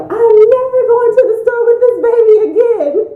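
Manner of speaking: high, loud laughing declaration; loud mock vow to husband; exasperated vow. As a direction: swear it off with a laugh. Vowing to her husband.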